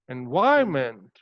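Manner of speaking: "environment" rising to a long VI, then falling; stress on VI. Shown as a demonstration. Teacher modelling syllable stress, "environment" stressed on VI. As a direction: stretch and lift VI in "environment". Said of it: "how to stress upon this syllable".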